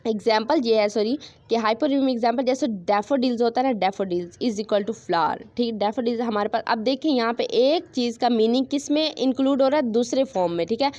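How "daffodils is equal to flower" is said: each word spaced out slowly; slow dictation. Shown as a demonstration. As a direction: dictate the example for notes. (धीरे-धीरे लिखवाना)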